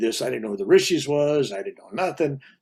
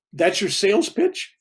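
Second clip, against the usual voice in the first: incredulous; 7 semitones higher, 4 dB louder than usual. Retold or imitated. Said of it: "I go".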